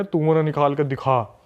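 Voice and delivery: a slow, lightly voiced spirit taunt, not much changed from own voice; chilling possessed taunt. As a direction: drag "तू मुझे निकाल के दिखा" out slowly as a mild menacing dare. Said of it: "ऐसी tone में बोल रही है कि इंसान सुन के ना कांप जाए".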